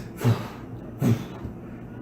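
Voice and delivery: breathy wingbeat noise; wing whoosh. Acted. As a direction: blow out puffs like beating wings. GM mimes the creature's wings.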